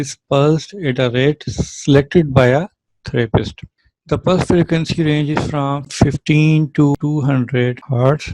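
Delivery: very slow, word by word reading from the notes; measured textbook reading; slow dictation reading. Acted. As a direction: read it out like dictating to a class. Reads English definition slowly.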